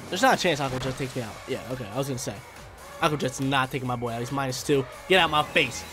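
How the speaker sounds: ordinary talk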